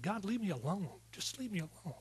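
imitated weeping protest, not full crying; retold tearful plea. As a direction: act out pleading to be left alone. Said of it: "I was crying. I was just weeping".

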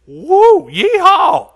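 high, loud cowboy yeehaw; excited whoop. Acted. Reader celebrating promised wealth and riches, hammed-up whoop. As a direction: holler it with a laugh, hammed-up. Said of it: "Excuse me for getting excited".

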